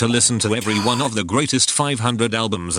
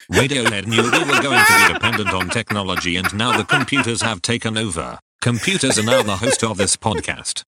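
flat computer voice with effects; robot voice. Acted. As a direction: speak like a robot host. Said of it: "in that robot voice".

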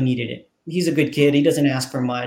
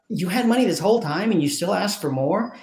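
retold fuming father; 5 semitones higher, 3 dB quieter than usual. Storyteller voicing a father who spots his son's money, fuming. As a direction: voice a mildly mock-outraged parent. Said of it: "fuming, realize".

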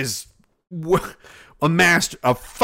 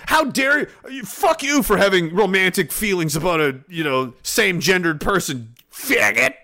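mock outrage; 4 semitones higher than usual. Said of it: "we didn't mean, like".

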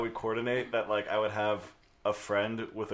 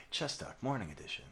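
quiet; 11 dB quieter than usual. Real, not acted. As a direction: say it barely above a murmur. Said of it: "You're talking too quietly".

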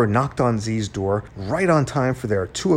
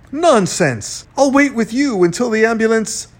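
loud, high objection; emphatic insistence; 10 semitones higher, 6 dB louder than usual. A narrator's reading. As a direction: overrule him forcefully. Mayor firmly refusing to leave.

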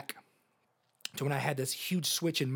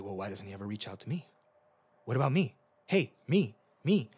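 selfish whine; 3 semitones lower than usual. Retold or imitated. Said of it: "It's very selfish".

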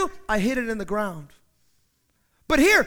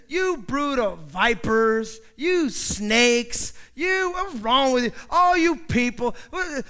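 loud, slow, higher fiery rebuke; John rebuking; 4 semitones higher, 4 dB louder, slower than usual. Acted. John the Baptist rebukes the crowd, fiery and loud. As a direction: tear into the crowd like a desert prophet. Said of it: "he is just giving it to him".

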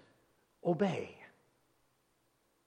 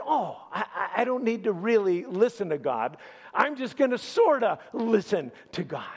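mock excuse; 5 semitones higher, 3 dB louder than usual. Preacher voices Saul's excuse.

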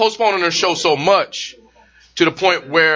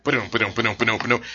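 hummed news sting; 8 semitones lower, 6 dB quieter, much faster than usual. Retold or imitated. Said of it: "It was like".

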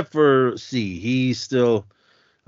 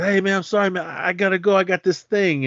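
hurried brush-off; 9 semitones higher than usual. Retold or imitated.

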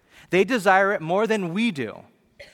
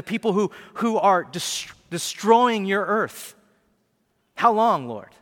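pleading martyrs; 5 semitones higher, 3 dB louder than usual. Retold or imitated. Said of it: "they're in heaven going".

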